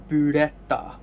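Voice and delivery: burrata said in a Japanese accent. Shown as a demonstration. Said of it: "one in Japanese accent".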